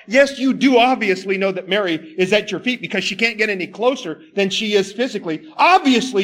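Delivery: a frustrated sister demanding help; indignant complaint. Retold or imitated. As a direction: voice Martha's huffy grievance against Jesus. Martha complaining about Mary.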